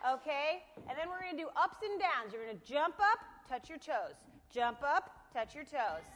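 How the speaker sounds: loud barked drill orders; drill sergeant. Pretend. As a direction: bark commands like a boot camp sergeant. Loud exercise commands continue.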